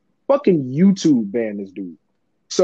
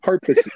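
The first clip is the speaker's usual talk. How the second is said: "Purposes" said higher, as a correction; insistent correction; 6 semitones higher than usual. Real, not acted. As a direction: repeat "Purposes" pointedly for someone who misheard. Corrects friend's mishearing of his word.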